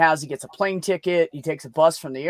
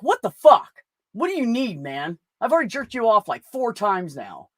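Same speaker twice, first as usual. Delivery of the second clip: high, loud exasperated shouting; exasperated yell; 5 semitones higher, 3 dB louder than usual. Retold or imitated. Rider yelling at his camel in high, loud exasperation. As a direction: lose it at the stubborn beast.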